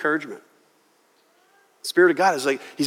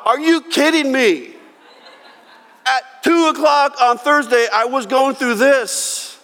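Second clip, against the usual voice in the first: much higher and louder, laughing in disbelief; stunned, a laugh breaking in; incredulous, laughing reply; astonished disbelief; 10 semitones higher, 4 dB louder than usual. Retold or imitated.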